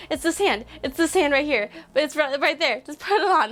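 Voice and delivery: freaking out. Retold or imitated. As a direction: hurry them along, flustered with excitement. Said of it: "I'm, like, freaking out".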